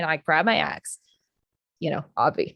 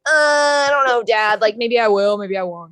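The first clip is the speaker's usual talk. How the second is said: reluctant son; 6 dB louder than usual. Retold or imitated. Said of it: "And, and he's like".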